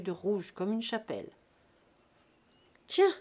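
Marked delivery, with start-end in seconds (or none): 2.9-3.1 put-on louder, higher drunken call; cried out. A narrator's reading. Drunk father shouting as his daughter walks in. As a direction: hail her across the dance. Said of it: "cria Jésus-Christ".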